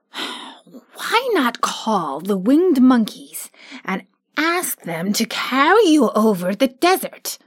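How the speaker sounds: lightly voiced cheerful scarecrow; a hint of a pleased straw ruler. Scarecrow as new ruler addresses his friends, pleased.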